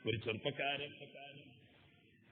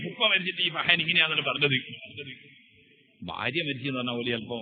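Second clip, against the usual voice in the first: ordinary talk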